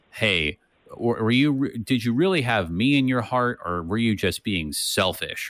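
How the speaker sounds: scathing. Retold or imitated. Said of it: "really scathing".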